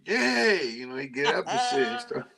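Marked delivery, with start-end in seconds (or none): 0.0-0.7 dog voice in Spanish. Retold or imitated. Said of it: "He'd be like".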